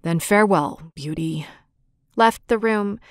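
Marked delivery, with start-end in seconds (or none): 0.0-1.5 low, sorrowful goodbye, fading away; a heartbroken beast taking his leave; mournful farewell. A narrator's reading. The rejected Beast bids Beauty a mournful farewell. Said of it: "in a mournful voice".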